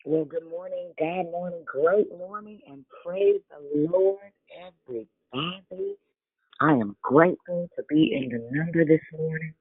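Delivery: muffled phone line. Real, not acted. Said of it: "You sound muffled".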